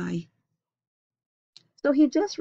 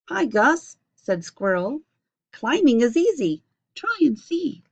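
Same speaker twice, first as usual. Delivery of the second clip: Squirrel voice; 5 semitones higher, 5 dB louder than usual. Acted. Squirrel voiced, high and bright.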